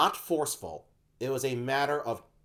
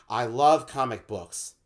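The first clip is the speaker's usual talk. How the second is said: heartfelt confession; 4 dB louder, slower than usual. Retold or imitated. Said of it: "afraid to say".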